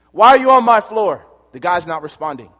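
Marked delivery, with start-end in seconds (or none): 0.1-1.3 drill instructor yell. Retold or imitated.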